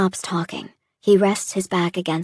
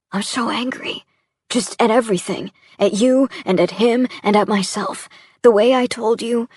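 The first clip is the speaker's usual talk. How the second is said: louder, higher, voice rising in frustration; anger spilling over at everything; angry outburst; 3 semitones higher, 3 dB louder than usual. Acted. Sam vents anger at her, Jesse and himself, higher louder frustration.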